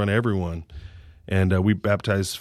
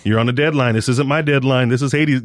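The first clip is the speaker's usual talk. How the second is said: raised, louder, a friendly scolding coach; mock exasperated nagging; 4 semitones higher, 5 dB louder than usual. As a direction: hurry him up, half joking and exasperated. Pushing athlete to get vaccinations.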